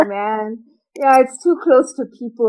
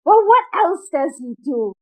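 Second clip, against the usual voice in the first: disgusted aunt; 4 semitones higher than usual. Retold or imitated. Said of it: "disgust in her voice".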